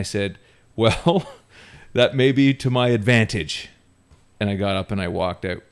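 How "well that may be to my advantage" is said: high drawn-out well, cocky and amused; laughing retort. Retold or imitated. Teenager answering the boss who banned him, laughing. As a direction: toss it back with a laugh. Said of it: "And I laughed".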